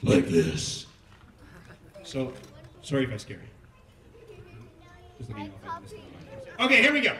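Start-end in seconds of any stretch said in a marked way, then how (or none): 0.0-3.5 very low, menacing villain voice; evil voice. Shown as a demonstration. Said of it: "the voice of Haman is going to be an evil voice". 5.2-6.1 deep, soft sinister villain voice; evil voice. Shown as a demonstration. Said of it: "the voice of Haman is going to be an evil voice".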